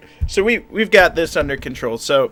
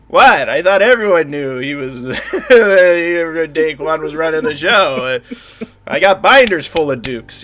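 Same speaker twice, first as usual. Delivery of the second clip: flustered laughing cover; 4 dB louder, slower than usual. Acted.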